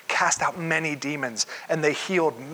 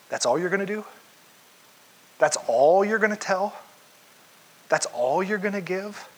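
higher, pressing scoff at each question; a hint of a stern disappointed boss; disappointed scold; 4 semitones higher than usual. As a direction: needle them with mock disappointment. Stern disappointed God voiced.

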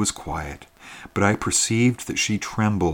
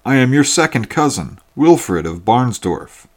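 louder, eager welcome to a long-lost cousin; glad cry of recognition; 5 dB louder than usual. Acted. Hunter greets his newfound cousin by the fire, loud and eager. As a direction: burst out warmly, recognising kin. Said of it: "cried the hunter".

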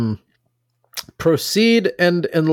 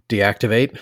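one word at a time; 3 semitones lower than usual. Shown as a demonstration. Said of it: "take it one word at a time".

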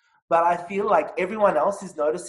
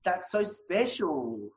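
shaky sigh. Real, not acted. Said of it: "I'll just cry it out".

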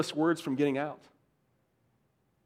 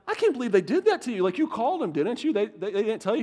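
goading disbelief; 3 semitones higher than usual. Retold or imitated. Two friends winding up David for fun, feigned disbelief. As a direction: feign outrage on a friend's behalf. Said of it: "let's mess with them".

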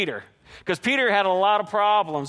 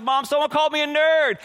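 higher-pitched mock upset kid; retold crying child; 6 semitones higher than usual. Bullied boy telling his mom, mildly acted upset. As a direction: lightly imitate a tearful complaint, pitched up. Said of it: "and I was crying".

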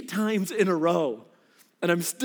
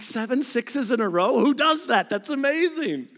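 excited; 5 semitones higher than usual. Retold or imitated. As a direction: sell the thrill of the streak. Retelling his excited dice roll.

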